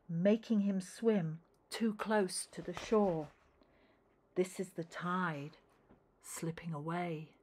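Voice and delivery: gentle read-aloud storytelling; a parent reading rhyming verse to a child; story narration. A narrator's reading. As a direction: read it like a bedtime picture book. Reads picture book aloud.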